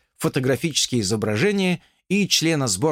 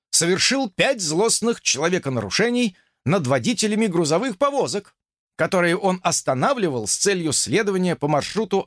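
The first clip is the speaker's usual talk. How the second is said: officer snapping to attention, higher; dutiful officer report; 6 semitones higher than usual. Acted. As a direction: report crisply to a superior. Officer's long formal report.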